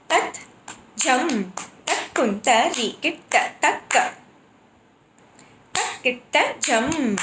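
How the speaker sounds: steady rhythmic bols; reciting the jati. Shown as a demonstration. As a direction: recite the phrase in time. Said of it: "you can see in this Jati".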